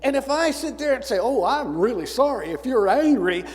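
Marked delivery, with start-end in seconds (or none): 1.2-3.4 mock sympathy. Mocking the soft, appeasing answer.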